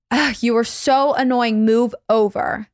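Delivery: mildly exasperated, slowing on "move over"; a touch of teenage annoyance, read aloud; understated irritated groan and order; retold teenage rage. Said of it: "In a seventeen-year-old rage".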